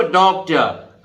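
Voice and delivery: डॉक्टर ending without any r; silent final r. Shown as a demonstration. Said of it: "आर नहीं बोलेंगे". (डॉक्टर को अंत के र के बिना)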